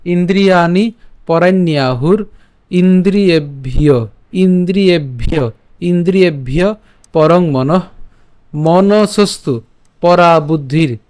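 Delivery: measured, chanted reading of a Gita shloka; Sanskrit verse recitation. Shown as a demonstration. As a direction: recite each half-line with a pause, like a teacher. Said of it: "একটু খেয়াল করুন আবার".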